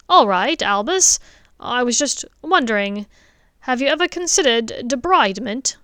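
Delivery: father asks the headmaster eagerly; eager dentist. Acted. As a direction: push forward with an eager question. Richard asks Dumbledore.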